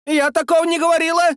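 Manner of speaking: high, fast indignant woman's voice; fly up in protest, quick and high. A narrator's reading. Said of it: "Тут же взвилась самая бойкая". (взвилась, высоко и быстро)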